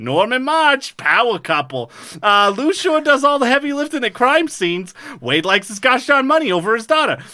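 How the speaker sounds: put-on light Minnesota accent summary read. Podcaster reading the Fargo recap in a light Minnesota accent. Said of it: "as I'm reading in this accent".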